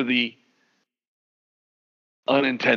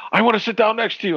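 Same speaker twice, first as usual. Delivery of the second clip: imitating wife; 10 semitones higher, much faster than usual. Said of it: "she's like".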